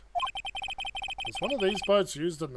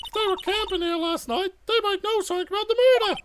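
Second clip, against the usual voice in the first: put-on higher, bubbly teen girl; chirpy young sidekick; 6 dB louder, faster than usual. Maya's lines.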